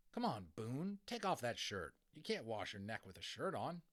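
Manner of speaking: lightly voiced brisk mother; brisk like his mother. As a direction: hurry him along, mum-style. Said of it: "said Omri briskly, echoing his mother".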